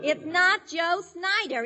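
slow, emphatic contradiction; exasperated insistence. Pretend. Arguing with customer over the leaves, exasperated. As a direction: spell it out slowly, losing patience.

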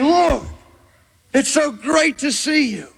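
high, eager cheery hello; a false believer greeting Jesus brightly; gushing greeting. Acted. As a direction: rush up gushing like an old friend.

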